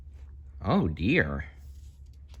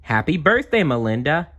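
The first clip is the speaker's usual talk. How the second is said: high, bright greeting; cheerful bear; 7 semitones higher, 4 dB louder than usual. Acted. Birthday Bear greets the girl, high and loud. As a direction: greet her like a friendly bear.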